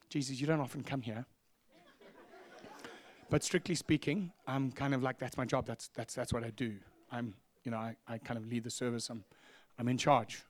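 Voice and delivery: low, soft and halting; hushed, hesitant self-justifying; sheepish objection. Retold or imitated. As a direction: imitate timidly explaining yourself to God. Pastor hesitantly answering back to God.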